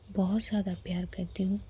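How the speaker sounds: whispered love confession; hushed, intimate confession of love; tender whisper. Acted. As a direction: breathe it softly to your beloved.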